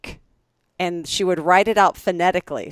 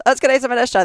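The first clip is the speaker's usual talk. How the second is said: higher, louder office farewell; calling out; 7 semitones higher, 6 dB louder, much faster than usual. Retold or imitated. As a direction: call it across the desks. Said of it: "kinda yells back".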